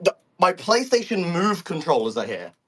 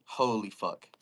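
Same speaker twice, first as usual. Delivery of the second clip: stunned; 8 semitones lower, 8 dB quieter, slower than usual. Real, not acted. Repeats it, sunk low.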